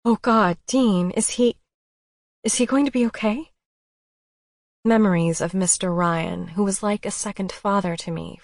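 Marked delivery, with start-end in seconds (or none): 0.1-3.5 panicked. A narrator's reading. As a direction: rush it out in fear. Panicked at bad news.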